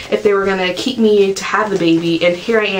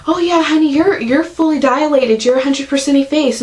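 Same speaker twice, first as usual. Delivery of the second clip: higher, sweet nurse impression calling her honey; 6 semitones higher than usual. Nurse telling the mother in labour she's fully dilated, in a higher, sugary voice. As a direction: lightly mimic a chirpy nurse. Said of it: "So the nurse checks me".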